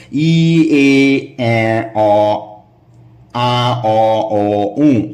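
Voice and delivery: each vowel sung out clearly, ই to উ; vowel drill. Shown as a demonstration. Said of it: "পর পর কয়েকবার সঠিকভাবে উচ্চারণ করো". (স্বরধ্বনি অনুশীলন, স্পষ্ট করে)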